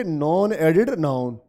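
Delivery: each word drawn out slowly for the class; slow drilled answer. Shown as a demonstration. Teacher to students, modelling the answer slowly. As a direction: spell it out slowly so the class can repeat. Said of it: "क्या बोलोगे?".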